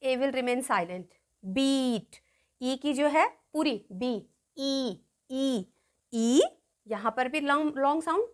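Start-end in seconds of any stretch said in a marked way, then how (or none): 1.5-2.2 "बीट" with the ई held long; long E demo. Shown as a demonstration. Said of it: "E की long sound देखिए". 3.9-6.4 ई drawn out after "बी"; long E demo. Shown as a demonstration. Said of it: "E की long sound देखिए".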